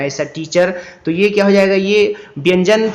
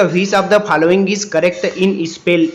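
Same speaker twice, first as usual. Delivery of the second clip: slow read-aloud; much slower than usual. Shown as a demonstration. Reads question.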